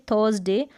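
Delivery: थर्सडे with the r swallowed inside the mouth; half-r THURSDAY. Shown as a demonstration. Teacher showing learners the half r, softened r in थर्सडे. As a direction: say थर्सडे with barely a trace of r. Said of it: "आधे र के रूप में".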